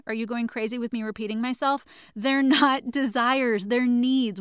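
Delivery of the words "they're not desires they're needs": slow, louder, with a laugh mid-line; laughing at herself yet insisting; loving shout. Real, not acted. Host repeating herself to listeners, laughing loving shout. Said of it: "I'm screaming at you with love".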